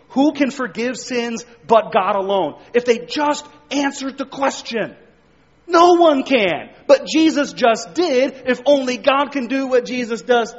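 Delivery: a preacher pressing the point on his congregation, loud and high; preaching at full force. Acted. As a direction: drive it home from the pulpit. Preaching climax on Jesus forgiving sins.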